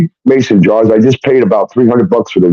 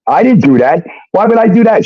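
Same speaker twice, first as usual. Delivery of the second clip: higher-pitched imitation of a protesting fiancée; mock-pleading denial in a raised voice; mimicking her denial; 10 semitones higher than usual. Imitating fiancée denying the PayPal transfer.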